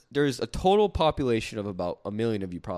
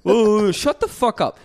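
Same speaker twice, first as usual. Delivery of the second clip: slow, higher and louder, drawn-out disgust; exasperated outburst; 7 semitones higher, 7 dB louder, slower than usual. Real, not acted. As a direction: drag it out, fed up and loud. Angry rant about northerners.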